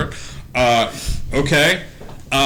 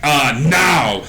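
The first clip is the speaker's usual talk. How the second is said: pixie threat; 5 semitones higher, 3 dB louder than usual. Acted. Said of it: "you hear a".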